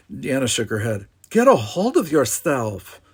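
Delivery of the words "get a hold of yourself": higher, slower desperate self-talk; desperate inner plea. A narrator's reading. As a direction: plead with yourself, higher. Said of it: "she thought desperately".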